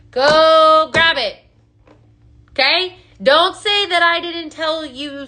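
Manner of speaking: loud, slow, punching each word; urgent push. Real, not acted. Host urging live viewers to buy, loud and slow. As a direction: drive the viewers to go buy it now.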